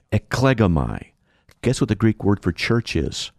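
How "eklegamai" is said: eklegamai set apart with a slight stress on "ek"; first-syllable emphasis. Shown as a demonstration. Preacher has listeners hear the Greek words, first-syllable emphasis on eklegamai. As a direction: press lightly on the first syllable of eklegamai, then fall. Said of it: "pronounce them with a bit of an emphasis on the first syllable".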